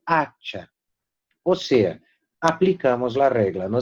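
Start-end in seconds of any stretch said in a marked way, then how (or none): 0.0-0.7 hacha with a drawn-out, stressed first A; stressed first syllable. Shown as a demonstration. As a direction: lean on the opening A of hacha. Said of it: "Nota la pronunciación".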